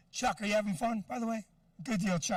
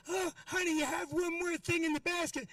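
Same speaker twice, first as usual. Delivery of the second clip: put-on old lady voice; 5 semitones higher than usual. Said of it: "she's like".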